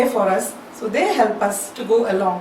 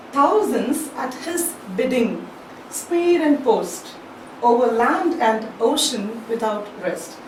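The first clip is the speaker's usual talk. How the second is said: poem recitation; slower than usual. Shown as a demonstration. Teacher reciting the poem's lines.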